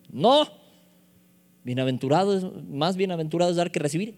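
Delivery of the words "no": high, loud emphatic no; exclaimed rebuttal, pitched way up; emphatic denial. Shown as a demonstration. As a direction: knock down the false quote with a high, loud refusal. Answering own mock misquote.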